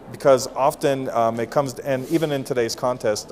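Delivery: ordinary delivery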